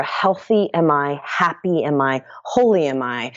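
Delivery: mantra. Shown as a demonstration. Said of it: "we're gonna use this mantra".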